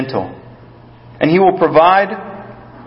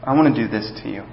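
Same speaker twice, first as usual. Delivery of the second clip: soft, lower, tender invitation; soft calm calling close; gentle God voice; 3 semitones lower, 6 dB quieter than usual. Acted. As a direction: coax them in gently like sheltering under a wing. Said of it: "where he says".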